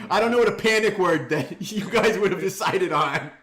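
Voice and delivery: high, loud, laughing. Acted. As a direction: laugh through a high character voice. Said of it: "That doesn't sound like Renard".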